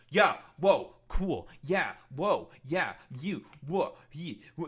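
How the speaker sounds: mock mindless agreement, short repeated bursts; mocking devoted listener. Streamer imitates a fan lapping up slop propaganda, mindlessly agreeing. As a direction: parrot empty amazement like a gullible fan. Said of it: "just being like".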